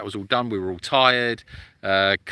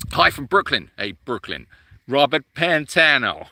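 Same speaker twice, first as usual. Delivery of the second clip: put-on off-target stab at a Brooklyn accent; failed Brooklyn accent; 3 dB louder than usual. Greeting a Brooklyn viewer, failed Brooklyn accent. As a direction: try Brooklyn and miss. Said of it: "that's not Brooklyn, is it?".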